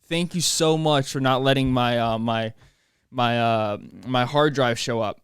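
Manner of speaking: a mock hymn of thanks, dripping sarcasm; sarcastic relief. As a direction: pretend to thank God for the broken drive. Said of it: "I was like".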